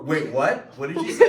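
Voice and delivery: high, loud, laughing question; laughing in disbelief. Real, not acted. Laughing at a kid's answer.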